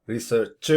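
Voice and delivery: research with the final CH punched out; wrong final stress. Shown as a demonstration. Teacher shows another mistake, research stressed on CH. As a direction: overstress the last sound of research, a drawn-out CH. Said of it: "So avoid doing that".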